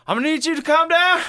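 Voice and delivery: high, loud, fast mock shout; imitated frantic command; hammed-up order. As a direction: yell the calm-down over a screamer. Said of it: "it was a dude comment".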